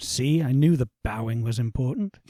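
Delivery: quiet muttering under the breath. A player voices their character's remark after a creature bows, muttered under breath. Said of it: "just under my breath I say".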